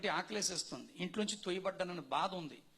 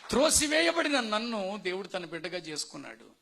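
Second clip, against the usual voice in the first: త్రోసివేయబడిన hit louder as the climax; a louder echo that drives the point home; a preacher repeating his line louder to his listeners; louder preaching emphasis; 2 semitones higher, 6 dB louder than usual. Shown as a demonstration. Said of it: "నేను అంటున్నాను".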